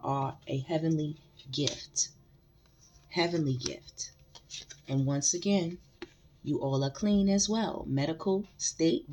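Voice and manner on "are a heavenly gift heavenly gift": soft hushed whisper; tender whispered blessing. Real, not acted. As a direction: breathe it to them like a secret blessing.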